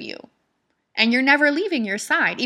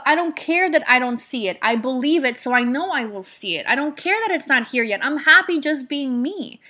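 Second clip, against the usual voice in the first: affirmation; 2 semitones higher than usual. Shown as a demonstration. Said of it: "And tell yourself".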